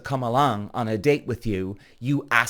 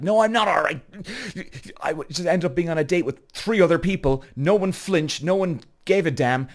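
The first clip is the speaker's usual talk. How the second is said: higher-pitched, worked-up mock rant; retold fuming; 4 semitones higher than usual. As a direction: act out venting to a friend. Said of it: "I'm raging. I'm fuming now".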